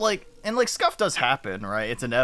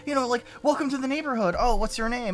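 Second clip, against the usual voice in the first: higher, lightly voiced old man; old neighbor; 10 semitones higher than usual. Elderly neighbor welcoming the newcomer, higher mock old-man voice. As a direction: impersonate the chatty elderly neighbor, pitched up. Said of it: "he's just like".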